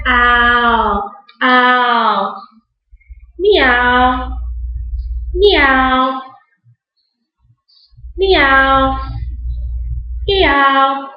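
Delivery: long, drawn-out meows; imitated cat meows. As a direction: draw each call out like a cat. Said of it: "what kind of animal almost always says".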